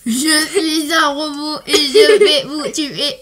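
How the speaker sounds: slow robotic monotone. Acted. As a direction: speak like a killer robot. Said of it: "il fait le robot".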